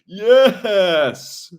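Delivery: put-on high, loud drawn-out kid's cheer; Steven. Imitating a video kid overjoyed about games, hammed-up cheer. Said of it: "the Waffle Pone kid, Steven".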